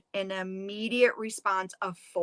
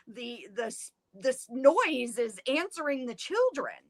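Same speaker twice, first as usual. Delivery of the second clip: higher, stammering call to a husband; mildly raised, flustered calling out; mock yell; 3 semitones higher than usual. Mother calling out to her husband, mild mock yell. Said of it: "she yells out to Mister Fox".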